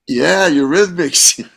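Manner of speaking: slow, high-pitched cheer; thrilled, drawn-out endorsement; excited approval. Retold or imitated. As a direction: draw out an enthusiastic yeah. Thrilled it sounds like a rock band.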